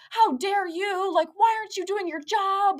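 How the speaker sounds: high-pitched mock yell; indignant mock outburst, high voice; retold yelling. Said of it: "yelling at me".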